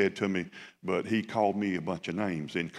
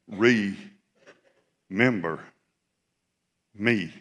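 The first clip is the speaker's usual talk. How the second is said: Remember stretched very slow and loud, begging; the thief pleading to be put back together, slow and drawn; desperate plea; 4 dB louder, much slower than usual. Shown as a demonstration. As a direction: draw out Remember as a broken man's cry. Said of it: "He was saying".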